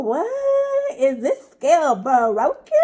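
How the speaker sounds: hear the scale number and not believe it; shocked disbelief. Retold or imitated. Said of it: "I was like".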